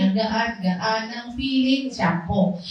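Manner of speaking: slow, lightly dreamy commercial read; a hint of a shampoo commercial; mock shampoo ad. Quoting a Palmolive ad for the church, mock commercial voice. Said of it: "May patalastas yun eh".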